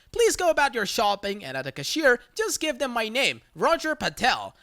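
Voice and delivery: put-on apologetic manager in an Indian accent; smooth it over in an Indian accent. Fake manager soothing the angry customer, Indian accent. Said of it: "I switched my accent to Indian mode".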